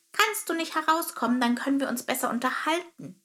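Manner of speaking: high sparrow voice, rushing the second half; sparrow calling out. Acted. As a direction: call through the wall as a little bird. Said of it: "rief er".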